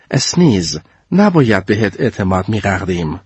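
put-on low, reproachful boy voice. Pierre reproaches Sneeze in a low voice. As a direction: let him down heavily.

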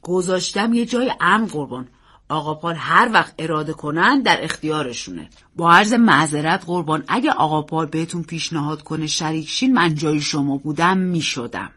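deferential, measured man's voice; lightly voiced loyal servant; respectful servant. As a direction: advise the master respectfully. Servant Bassett answers uncle.

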